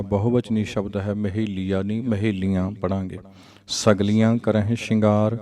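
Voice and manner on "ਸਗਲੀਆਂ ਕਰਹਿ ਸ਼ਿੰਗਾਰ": nasal ending on ਸਗਲੀਆਂ; recited gurbani line. Shown as a demonstration. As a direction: say ਸਗਲੀਆਂ with a nasal final vowel. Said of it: "ਸਗਲੀਆਂ ਪੜਾਂਗੇ".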